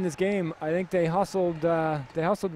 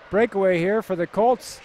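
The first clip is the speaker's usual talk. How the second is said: louder, lifted hockey call; live play-by-play; 3 semitones higher, 3 dB louder than usual. Real, not acted. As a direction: call the breakaway as it unfolds.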